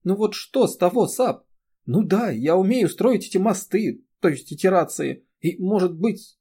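loud, high, weeping protest; tearful outburst. A narrator's reading. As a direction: pour out the hurt through tears. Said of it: "Она заплакала".

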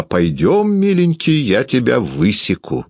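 threat swooping up high; worked-up high-pitched scolding; mother crying out. A narrator's reading. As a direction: threaten the child with mock endearment, voice high. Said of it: "кричала она".

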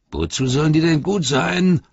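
high, loud squealing orc; squabbling orcs. A narrator's reading. Orc troop protesting the order, high and loud. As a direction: protest shrilly.

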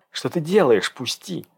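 mildly nervous hiss, ending hushed. A narrator's reading. Dasha struggles in Egor's grip, nervously hissing. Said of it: "нервно прошипев".

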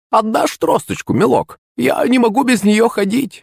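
high, wheedling crone voice; fake-sweet plea for the staff; sneering fake sweet. Witch wheedles for her staff.

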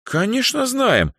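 put-on proud girl boasts of her friend. A narrator's reading. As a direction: lift the chin and boast. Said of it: "гордо вздёрнув подбородок".

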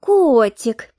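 lightly mimicked cooing; mock the blonde's pet name; mocking mimicry. Girl mimics the blonde to Alex, mildly mocking. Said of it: "передразнила я её".

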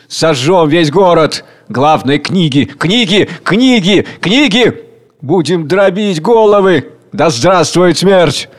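rising to a fanatic peak; frenzied mob. Acted. Mob howling to burn the books, pitch climbing. Rioters chanting for burning.

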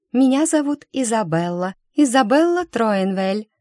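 high, regal sweet voice; regal princess. Acted. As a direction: announce yourself like royalty. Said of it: "царственно кивнула Изабелла".

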